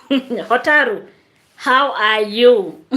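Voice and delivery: slow, drawn-out greeting through laughter; chuckling slowly through the name; laughing. Real, not acted. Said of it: "I'm laughing because there is a comment".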